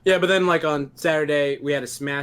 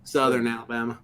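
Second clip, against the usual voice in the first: Southern accent; 3 semitones lower than usual. Real, not acted. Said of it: "you turned the Southern on".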